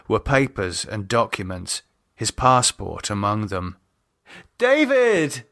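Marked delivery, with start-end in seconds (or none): 4.6-5.4 high, urgent calling out for David; a woman shouting for her partner in alarm. Acted. Lisa calling for David through the empty flat, alarmed.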